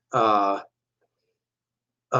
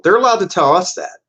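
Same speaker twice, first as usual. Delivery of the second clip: indignant aside; 8 semitones higher, 3 dB louder, faster than usual. Real, not acted.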